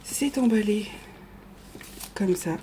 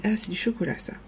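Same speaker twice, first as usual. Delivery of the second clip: ASMR whisper; faster than usual. Shown as a demonstration. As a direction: breathe the words like an ASMR video. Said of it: "je vous fais un A S M R". (chuchotement ASMR)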